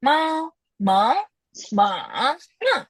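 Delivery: teacher chanting the four Mandarin tones on ma. Shown as a demonstration. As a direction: run ma through the four tones in a row. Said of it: "Itu nada dalam bahasa Mandarin".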